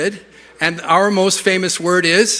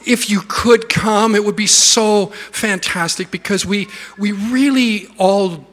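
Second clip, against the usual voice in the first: apologetic pleading. Retold or imitated. Pastor pleading for prayer meeting attendance, mock apologetic. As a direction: coax them apologetically to come. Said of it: "So I'll exaggerate a little".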